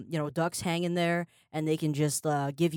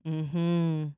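slurping noodles. Shown as a demonstration. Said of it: "Do you wanna demonstrate the sound?".

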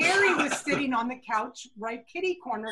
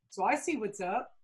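quietly imply you're in on it; knowing insinuation; 2 semitones lower, 4 dB quieter than usual. Retold or imitated. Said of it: "taps me on the leg and he goes".

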